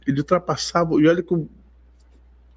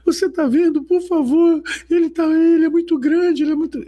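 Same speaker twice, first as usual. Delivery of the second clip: retold yelling; 11 semitones higher than usual. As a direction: shout it out in awe, high. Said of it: "a Alice gritava".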